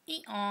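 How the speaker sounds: lightly imitated donkey hee-haw; donkey bray. Shown as a demonstration. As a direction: give a small donkey bray as a prompt. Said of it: "Where's donkey?".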